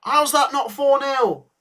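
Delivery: can't believe they missed it; stretched-out howl of disbelief at the miss; disbelieving outburst. Real, not acted.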